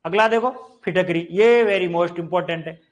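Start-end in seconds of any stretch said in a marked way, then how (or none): 1.3-2.8 very most important drawn out slowly, very stressed; emphatic warning. Shown as a demonstration. Teacher flags an exam point, slow and emphatic. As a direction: stretch every word of very most important. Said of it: "teacher flags key item".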